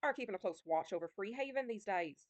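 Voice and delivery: lightly attempted Scottish-tinged pirate accent; pirate accent sliding Scottish. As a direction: try a pirate lilt that slips toward Scottish. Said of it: "stop trying to do an accent".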